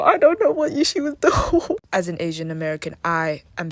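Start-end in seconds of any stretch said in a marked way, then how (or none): 0.0-1.8 higher, louder exasperated laugh through the words; laughing disbelief. Real, not acted. Calling out the girl in the clip, laughing disbelief.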